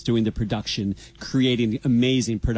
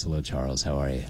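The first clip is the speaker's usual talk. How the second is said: deep, smooth DJ announcer voice; lower, rounder radio host delivery; 9 semitones lower, 5 dB quieter than usual. Acted. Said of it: "Do you like this radio voice I'm using right now".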